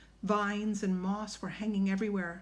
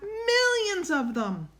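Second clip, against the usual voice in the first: high, drawn-out cry of alarm; 12 semitones higher, 4 dB louder, slower than usual. A narrator's reading. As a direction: wail it out high and slow. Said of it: "cried Jack".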